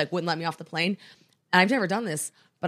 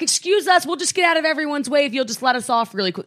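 imitating entitled passengers, higher-pitched and pushy; doing-a-favor entitlement; 6 semitones higher, 3 dB louder than usual. Pushy passengers asking to get off first, high mock entitlement. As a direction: put on a high, presumptuous "excuse us". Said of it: "like they were doing us a favor".

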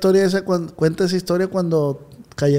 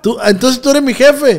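incredulous challenge; 5 semitones higher, 4 dB louder than usual. Acted. Mock quarrel over who is boss.

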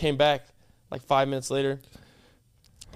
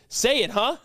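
pushy, higher-pitched bully demand; mock hostage-taker; 6 semitones higher, slower than usual. Friend playing captor with a phone in your face, mock bullying. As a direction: badger them like a pretend bully. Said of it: "let's just flip the roles".

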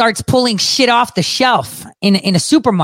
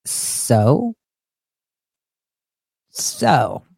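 low, soft, unimpressed; dismissive; 7 semitones lower, 5 dB quieter than usual. Acted. Host would not care if he did it, low dismissive shrug. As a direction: drop it quietly like a verbal shrug. Dismissive reply held for effect.

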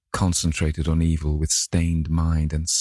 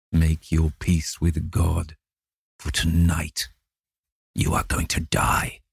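slow menacing threat. A narrator's reading. James Vane threatens death.

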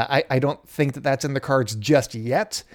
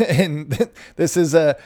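laughing; slower than usual. Real, not acted. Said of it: "this is why I'm laughing".

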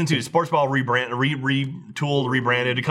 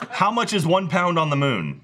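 slower, clearer voice command, laughing; repeating to voice assistant; 2 semitones higher than usual. Real, not acted. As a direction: speak slowly to the phone assistant. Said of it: "hey Siri".

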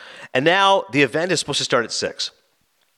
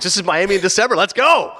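hyped-up, higher-pitched cheer; excited; 4 semitones higher than usual. Retold or imitated. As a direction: pump yourself up to hit the town. Acted delighted arrival in South Beach.

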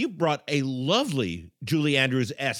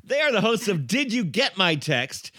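host outro; 4 semitones higher than usual. Real, not acted. Host's outro plug for guests.

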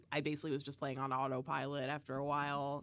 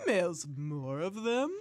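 mock announcer.

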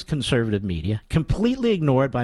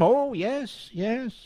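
mock sneering reply; 6 semitones higher, 4 dB quieter, much slower than usual.

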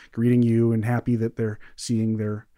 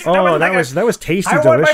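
gleeful relish; 8 semitones higher, 9 dB louder than usual. Real, not acted. Savoring the ending.

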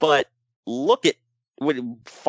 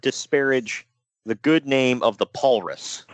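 slow, lightly voiced wrestling manager; mock-solemn, deliberate defence of a good name; Paul E. Co-host warns his friend off insulting the Paulrus, mildly mock-indignant Paul E. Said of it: "I've never got a Paul E on this show".

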